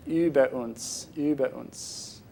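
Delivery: über with a rounded front ü, slow and soft; correct German umlaut. Shown as a demonstration. Showing the audience correct umlauts, slow über uns from the front of the mouth. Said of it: "speak them from the front of your mouth".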